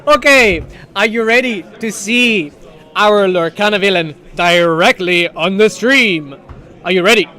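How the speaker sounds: mock villain teasing the reveal. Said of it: "I'm doing a little bit of a Lorcana villain voice here".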